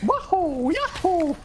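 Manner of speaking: high, bouncy yahoo; playful cheer. Real, not acted. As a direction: join in the whoop.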